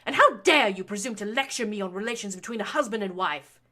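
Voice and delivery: loud, high, rising fury; lashing out. A narrator's reading. Baroness lashing her son for lecturing her. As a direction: build the tirade to a shrieking peak. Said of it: "between her lashings".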